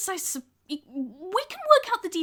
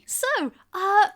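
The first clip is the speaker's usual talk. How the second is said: Frankie's voice; 2 semitones higher than usual. Acted. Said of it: "it's like".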